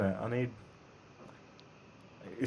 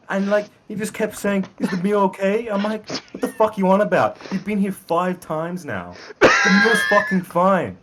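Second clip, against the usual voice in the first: high-pitched, badly faked American accent; attempted American accent; 9 semitones higher, 3 dB louder than usual. Shown as a demonstration. Telling friends about a pestering waiter, in a shaky-authenticity American accent. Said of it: "Oi, give us your American accent".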